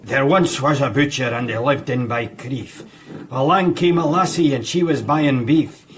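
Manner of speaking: poem recital. Acted. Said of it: "recite a poem".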